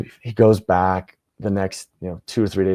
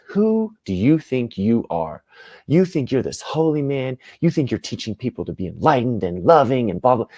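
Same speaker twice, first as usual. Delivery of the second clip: indignant, raised-pitch accusation; enraged husband; 5 semitones higher than usual. Acted. Enraged husband confronting the Buddha as he teaches, indignant. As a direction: confront him with acted outrage. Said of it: "it just enraged, and he goes".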